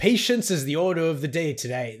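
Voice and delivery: lightly put-on British officer accent; mock-British general, calm command; a hint of a bad British accent; horrible British accent. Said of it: "This is a horrible accent".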